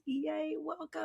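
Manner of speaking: high, drawn-out happy yay; excited cheer. Real, not acted. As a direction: cheer the guest in warmly. Host cheers welcoming first guest.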